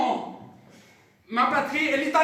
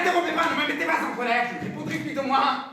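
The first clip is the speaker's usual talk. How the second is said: irritated scolding; 3 semitones higher, faster than usual. Acted. Professor scolds interrupting student.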